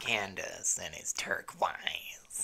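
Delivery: mock introduction. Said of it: "that was horrible".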